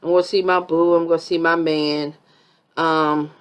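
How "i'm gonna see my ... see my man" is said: fast, gushing mock excitement; a hint of a giddy girlfriend, quick and bubbly; excited Brittany. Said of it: "But Brittany got excited. She's like".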